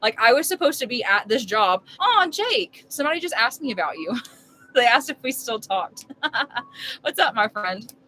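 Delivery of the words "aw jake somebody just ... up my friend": friendly greeting. Real, not acted. Greets passerby during livestream.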